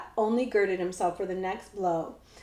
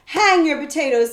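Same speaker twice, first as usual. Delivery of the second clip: gruff outlaw; 5 semitones higher, 8 dB louder than usual. A narrator's reading. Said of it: "said Hold Your Nose Billy".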